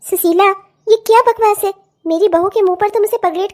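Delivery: loud stern scolding; indignant loud demand; angry rebuke. Acted. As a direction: put the neighbour in her place. Mother-in-law scolds neighbour.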